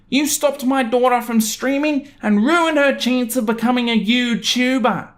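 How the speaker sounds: high, slow mock angry husband; furious neighbor's note read in a high, slow mock voice; angry note-writer. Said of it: "there's a transcription underneath".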